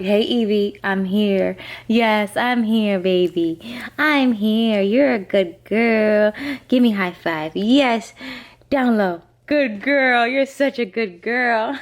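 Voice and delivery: put-on sweet baby talk to a puppy; talking to a dog. Shown as a demonstration. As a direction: coo to her lovingly. Showing undivided attention to dog.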